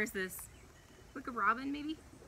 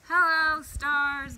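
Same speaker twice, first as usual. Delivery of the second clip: bright, loud greeting to the stars; joyful call; 6 semitones higher, 13 dB louder, much slower than usual. Acted. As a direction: call out hello like a delighted creator. God voiced greeting stars loudly.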